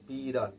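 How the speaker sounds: ড় in বিড়াল flapped off the palate; curled-back ড়. Shown as a demonstration. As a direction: say বিড়াল with the tongue curling backward. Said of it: "জিভটা কেমন গুটিয়ে পেছনের দিকে". (বিড়াল-এর ড় তালু ছুঁয়ে জিভ গুটিয়ে)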